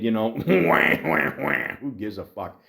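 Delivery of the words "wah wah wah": mocking "wah" crying noise; mock baby wail. Podcaster ridiculing an adopted coworker's sob story, mock wailing. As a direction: imitate a whiny cry to make fun of him. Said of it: "an adopted kid".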